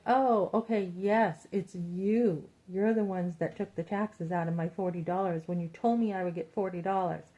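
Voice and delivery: loud, accusing outburst. Retold or imitated. Customer confronting the company that took taxes. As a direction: catch them out and let them have it. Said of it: "And I'm like".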